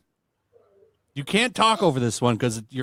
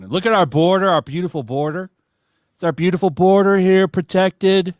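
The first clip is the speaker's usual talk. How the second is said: lightly voiced Trump boast; a hint of Trump bragging; Trump impression; 4 semitones higher, 4 dB louder than usual. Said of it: "my shitty Trump impression".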